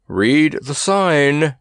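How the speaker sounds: slow firm command; directing. Acted. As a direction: spell out the order slowly. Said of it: "directed Kabumpo".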